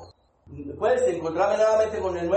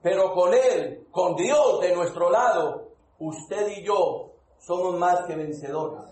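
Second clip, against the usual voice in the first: slow preaching; slower than usual. Acted. Preacher driving home his point to the church, slow and fervent. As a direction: lean into each word for the congregation.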